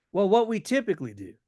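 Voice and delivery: breezy, quick and offhanded; nonchalant. Shown as a demonstration. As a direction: toss it off like it's no big deal. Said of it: "keep the tone very nonchalant, very offhanded".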